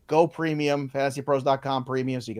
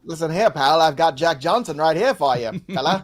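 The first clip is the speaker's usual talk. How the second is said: put-on old-timey baseball voice; 3 dB louder than usual. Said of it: "old-timey baseball announcer voice".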